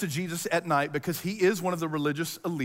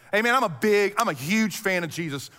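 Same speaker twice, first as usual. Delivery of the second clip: gushing fan; 4 semitones higher, 5 dB louder than usual. Retold or imitated. Imitated fan boasting around others.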